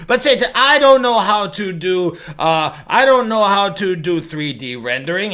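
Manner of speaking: put-on Italian accent for an impression; accidental Italian accent. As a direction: plead ignorance in a mock Italian accent. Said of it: "I don't know why he sounds Italian".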